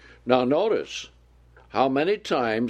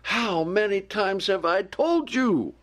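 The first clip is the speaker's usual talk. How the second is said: higher, slow fed-up parent voice; exasperated parent; 8 semitones higher than usual. Retold or imitated. Parent scolding a child who keeps disobeying, exasperated and slow. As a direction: sigh it out like a worn-out parent. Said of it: "finally in exasperation you say".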